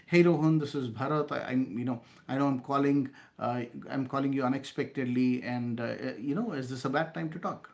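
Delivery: bright, friendly greeting with a lifted hey; friendly professional opener. Shown as a demonstration. Salesman opening a cold call to Rohan, friendly. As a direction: greet him by name, easy and confident. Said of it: "I repeat".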